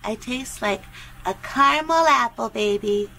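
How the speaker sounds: low, softened dirty-talk purr. Pretend. Describing a taste to a phone partner, low tease. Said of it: "Why are you talking dirty?".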